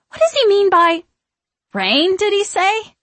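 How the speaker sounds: high-pitched puzzled witch; baffled questioning. A narrator's reading. Mary puzzling with her sisters, high and confused. Witches talking over one another.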